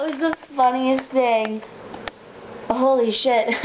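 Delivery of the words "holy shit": laughing. Real, not acted. Bird just hit the window.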